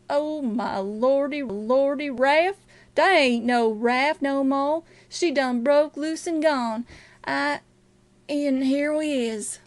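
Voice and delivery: drawn-out, wailing lament; distraught Jim. Acted. Runaway finding his raft gone, slow wailing dismay. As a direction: stretch the words out in dismay.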